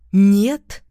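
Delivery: loud, questioning "Нет"; questioning echo. A narrator's reading. Ex-wife asks back after his refusal, loud questioning "Нет". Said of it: "переспрашиваю".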